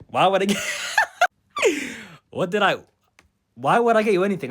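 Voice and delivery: retold refusal broken by laughter; incredulous question, burst by a cackle; laughing disbelief. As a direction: crack up while asking the question. Laughs while retelling his mocking refusal.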